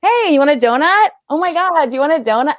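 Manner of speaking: high, bright mock-cheerful donut offer; saccharine server voice. Mocking what commercials want, in a sugary high voice. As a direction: gush it like a chipper commercial extra. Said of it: "all they want is for you to just be like".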